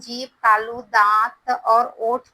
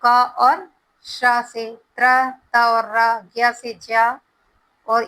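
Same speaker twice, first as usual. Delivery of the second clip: slow spelling out; slower than usual. Shown as a demonstration. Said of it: "कौन से दो वर्ण से भी मिलकर बना है".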